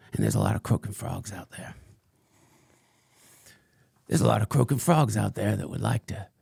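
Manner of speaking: lightly voiced crank ranting about the sun; a hint of a paranoid conspiracy ranter; Frank Blanders. Fringe podcaster rants to his followers, lightly put-on crank voice. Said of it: "what you just heard was, uh, um, Frank Blanders".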